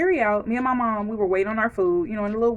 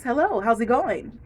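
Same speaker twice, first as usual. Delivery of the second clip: lightly put-on customer-service cheer; a hint of a chirpy hostess greeting; polite work voice, barely shifted; corporate voice; 3 semitones higher than usual. Shown as a demonstration. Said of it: "you put on your corporate voice".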